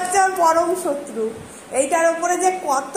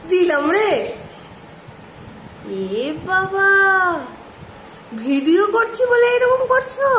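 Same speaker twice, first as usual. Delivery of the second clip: higher, teasing voice for a sleepy pet; coaxing pet talk; 5 semitones higher than usual. Real, not acted. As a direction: gently tease the pet awake. (পোষা প্রাণীকে আদুরে খুনসুটির গলায় ডাকা)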